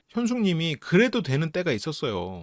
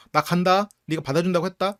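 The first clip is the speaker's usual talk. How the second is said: louder, forced tough front; acting tougher than she feels, louder; tough talk bravado; 3 semitones higher, 4 dB louder than usual. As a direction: fake confidence to steady herself. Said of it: "이렇게 오히려 세게 말하면서".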